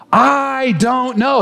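slow "I don't know" with a gentle rise on "know". Shown as a demonstration. Pastor models the phrase before the church repeats it. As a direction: model the words slowly for the congregation. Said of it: "Say it with me".

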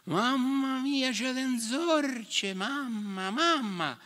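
high, slow wail of fright; panicked elephant. A narrator's reading. Elephant screaming for mamma at the mouse, high and slow. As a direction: squeal like a scared beast.

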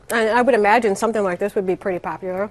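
talking while chewing; words round a bite of food; mouth full. Real, not acted. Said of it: "As I'm trying to talk with my mouth full".

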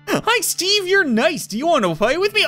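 high, sweet creepy doll voice; a cute haunted doll, eerie and bright; talking doll. Acted. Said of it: "I'm Grace".

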